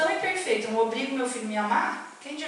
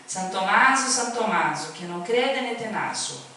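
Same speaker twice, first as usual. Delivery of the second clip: Italian proverb. Retold or imitated. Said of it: "um provérbiozinho que ela dizia".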